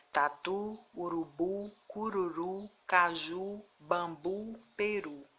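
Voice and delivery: taTU, uruBU, cururu with stress on the final U; última sílaba tônica. Shown as a demonstration. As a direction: read Tatu, urubu, caju word by word, leaning on each last syllable. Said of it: "a última sílaba é pronunciada com mais força". (Tatu, urubu, peru com ênfase na última sílaba)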